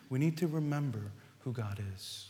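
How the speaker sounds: quiet, reflective echo of the refrain. Acted. Refrain repeated more softly.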